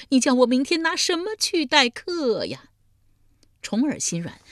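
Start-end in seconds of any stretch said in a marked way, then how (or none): 0.1-2.7 full-blown bawling. A narrator's reading. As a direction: let the question burst into a howl, falling at the end. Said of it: "嚎啕大哭道". (嚎啕大哭，拖长声音高喊)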